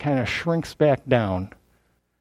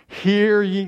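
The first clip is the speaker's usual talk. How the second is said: higher, official herald's call; formal, raised-pitch summons; official proclamation; 5 semitones higher than usual. Acted. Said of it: "he's got an official now".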